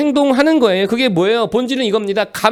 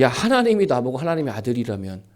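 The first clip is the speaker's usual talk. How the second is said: inner thought; 8 semitones lower, 6 dB quieter than usual. Retold or imitated. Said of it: "제가 속으로 생각했습니다".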